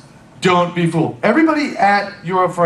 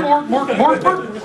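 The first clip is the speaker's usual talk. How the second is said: echoing joke; 6 semitones higher, slower than usual. Retold or imitated. Echoes the Friends joke.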